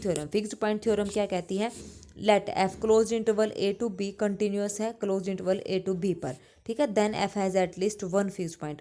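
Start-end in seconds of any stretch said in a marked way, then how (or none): 2.3-8.8 slow, deliberate English definition read for note-taking; slow dictation. Acted. Teacher dictating a theorem to her class, slow and deliberate. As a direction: spell it out slowly so students can copy.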